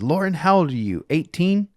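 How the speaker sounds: teasing question. Retold or imitated. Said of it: "he said".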